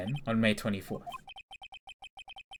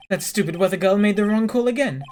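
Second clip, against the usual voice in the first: angry rant; 10 semitones higher, 9 dB louder than usual. Acted. Character fuming about weather report.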